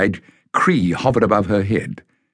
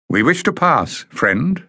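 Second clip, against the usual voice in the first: firm warrior voice; 8 semitones higher than usual. A narrator's reading. Bada confronts the guard.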